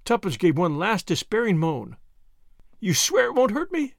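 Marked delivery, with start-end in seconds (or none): 2.8-3.9 high, anxious plea for reassurance; temporizing. A narrator's reading. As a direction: stall with a timid, high-pitched question. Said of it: "she temporized".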